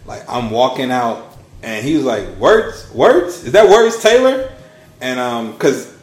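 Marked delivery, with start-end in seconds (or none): 2.4-2.9 higher, louder call with a questioning rise. Retold or imitated. Coworker spotting him at work calls out, loud and rising. 2.9-4.5 much higher and louder, rising disbelief; excited call. Retold or imitated. Coworker recognizing the YouTuber calls out, loud and high.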